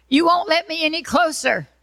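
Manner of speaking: high, loud yell. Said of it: "he yells down to her".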